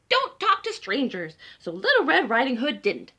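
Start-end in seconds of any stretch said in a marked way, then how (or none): 0.1-1.4 bossy warning. Acted. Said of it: "and she said".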